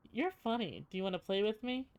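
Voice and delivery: too calm creepy doll. Acted. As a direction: sound like a sweet doll that is secretly sinister. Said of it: "the mouth begins to move".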